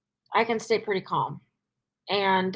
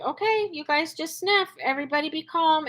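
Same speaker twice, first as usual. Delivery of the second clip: gentle, higher soothing voice to the dogs; calm soothing; 5 semitones higher, 3 dB quieter than usual. Retold or imitated. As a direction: settle the dogs softly. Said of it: "I just stayed calm".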